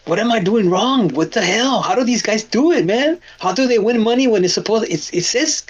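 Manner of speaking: replaying his own confusion, lightly; a touch of frustrated disbelief; mock frustration. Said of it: "I see how frustrated I was".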